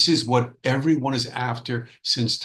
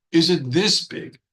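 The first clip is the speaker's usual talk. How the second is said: higher and louder, bursting with effort; straining frog; 5 semitones higher, 5 dB louder than usual. Acted. Frog in the well, swelling to bursting, asks higher and louder. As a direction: push it out as the cheeks near bursting.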